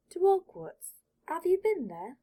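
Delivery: put-on high, loud, insistent kid voice repeating himself; eager young boy. Shy boy pressing Draco to answer, loud and high.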